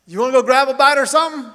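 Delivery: high, loud and fast through laughter; amused mock-friendly driver; laughing friendly offer. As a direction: toss out the invite while cracking up.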